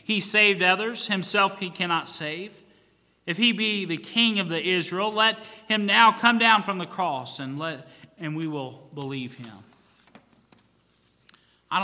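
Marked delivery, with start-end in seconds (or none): 0.0-9.6 loud, higher scornful jeer; mocking priests. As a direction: sneer it out loud. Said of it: "the chief priests mocking him".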